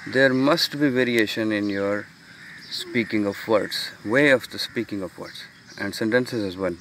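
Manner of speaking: slow, deliberate reading of the slide. Acted. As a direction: read each phrase out slowly for students. Reads English slide text. (धीमे, ठहर-ठहर कर slide पढ़ना)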